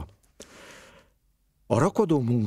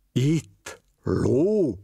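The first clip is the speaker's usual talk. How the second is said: higher, playacted innocent surprise; mock innocent; 6 semitones higher than usual. A narrator's reading. Father and son pretend to the investigator, mock innocent. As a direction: feign surprise like a child pretending. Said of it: "színészkedtek kórusban".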